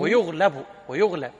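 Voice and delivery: ويغلب pronounced wa-yughlab, u then a; passive verb correction. Shown as a demonstration. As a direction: model ويغلب with damma on the ya and fatha on the lam. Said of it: "يعني ينهزم". (نطق ويغلب مبنياً للمجهول: يُغلَب)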